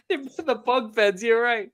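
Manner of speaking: talking around a toothbrush; while brushing teeth. Real, not acted. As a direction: mumble through toothpaste. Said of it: "I'm brushing my teeth".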